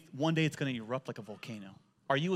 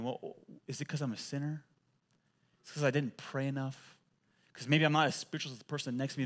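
subdued, mildly dejected self-questioning; downcast wondering; 3 semitones lower, 4 dB quieter than usual. Acted. Preacher voices churchgoers in pain blaming themselves, downcast. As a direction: voice a sufferer doubting themselves, softly. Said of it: "they put their head low, wondering".

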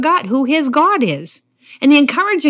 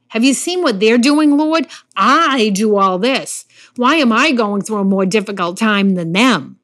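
whiny complaint. Retold or imitated. Pastor voicing Elijah whining about others, mock complaint. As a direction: play the aggrieved complainer, mildly hammed. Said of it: "I call this the wah wahs".

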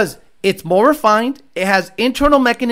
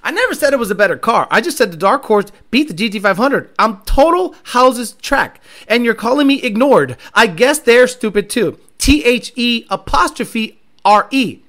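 mocking read-out; 4 dB louder than usual. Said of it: "I'm gonna read it".

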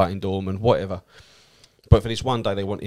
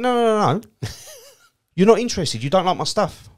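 higher and louder, dismissive laughing no; scornful refusal; 11 semitones higher, 4 dB louder than usual. Retold or imitated. Comedian rebuffing the stranger who dislikes his videos, mock scornful. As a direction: brush him off with a laugh.

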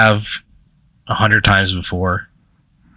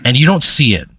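game master's scene setting. Acted. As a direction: let each phrase hang before the next.

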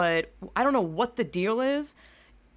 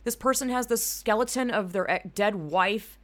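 incredulous mock reaction; 3 dB louder than usual. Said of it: "Some of the episodes are like".

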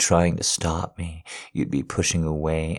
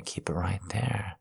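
whisper; 3 semitones higher, 8 dB quieter than usual. Acted. Coaxing his wife, drops to a whisper. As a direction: Keep it right there in a bare whisper.

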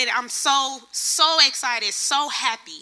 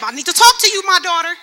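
voice of God calling; 5 semitones higher, 7 dB louder, faster than usual. Retold or imitated. Voicing God calling her.

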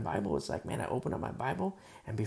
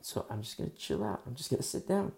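mock grumpy. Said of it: "That's why it's like".

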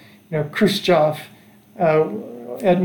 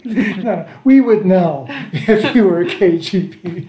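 retold laughing reply; 2 semitones higher, 3 dB louder, slower than usual. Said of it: "And they laughed at me".

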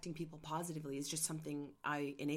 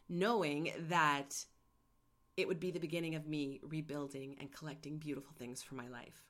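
choked up. Real, not acted. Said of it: "that makes me really choked up".

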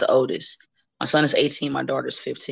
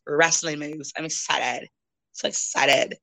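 deadpan sarcasm; slower than usual. Acted. Woman unimpressed by wrestling come-on, deadpan. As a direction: fake excitement deflated, dropping away. Mock excitement deflates to deadpan.

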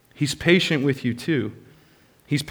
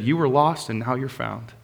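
tender father; 2 semitones lower, 6 dB quieter than usual. Acted. Father embracing returning son.

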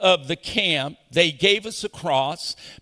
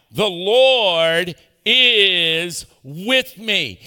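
Texas drawl; 5 dB louder, much slower than usual. Shown as a demonstration. Repeats the Texas line.

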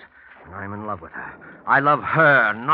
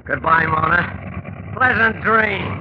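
very slow, higher and louder, mocking; gloating farewell; 6 semitones higher, 6 dB louder, much slower than usual. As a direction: drawl it out with cruel relish. Killer's farewell to his victim.

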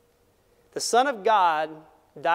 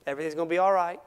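calm father. Retold or imitated. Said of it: "very calmly".

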